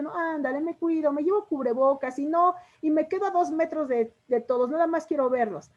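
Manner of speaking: pleading daughter. Shown as a demonstration. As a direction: coax dad, promising to be careful. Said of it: "hasta la entonación de la voz nos cambia". (hija insistiendo, voz aguda)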